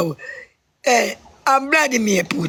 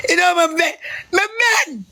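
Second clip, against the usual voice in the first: crying; 6 semitones higher, faster than usual. Real, not acted. Man breaking down as companion comforts him, crying. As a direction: voice breaking into tears. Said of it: "Don't cry".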